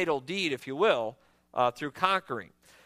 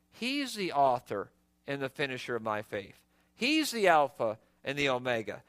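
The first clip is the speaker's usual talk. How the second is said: lower, softer, settled voice; quiet realization; 6 semitones lower, 3 dB quieter than usual. Acted. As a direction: say it softly, like a calm confession of faith. Voicing a believer's settled realization.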